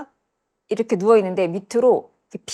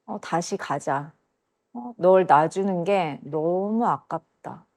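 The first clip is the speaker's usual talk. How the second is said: slow, soft voicing of the man; retold captor, unhurried and quiet; menacing man; 2 semitones lower, 4 dB quieter, slower than usual. Man taking her back down, slow quiet menace. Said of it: "그 남자가 저한테 그때".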